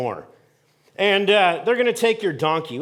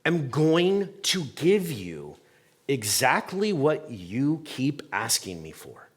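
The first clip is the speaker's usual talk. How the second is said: lower, slow, measured voice of God; slow, solemn God; 3 semitones lower, 5 dB quieter, slower than usual. Retold or imitated. Pastor voicing God to the crowd, slow and solemn. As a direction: speak God's warning slowly and gravely. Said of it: "God says".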